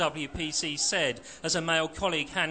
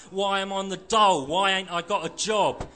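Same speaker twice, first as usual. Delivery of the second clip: louder and higher, indignant; angry retort; 4 semitones higher, 4 dB louder than usual. Acted. Jobless skinhead ranting at the Marxist, loud and angry. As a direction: fire the questions at him. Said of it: "Johnny spat".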